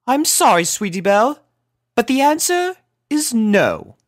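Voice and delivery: gently but firmly say no; calm. A narrator's reading. Rarity calmly refusing her little sister. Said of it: "composed herself into a calm manner".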